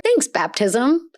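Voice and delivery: slow, dry thanks; slow sarcastic deadpan. Real, not acted. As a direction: drag it out sarcastically. Sarcastic remark on boy's death.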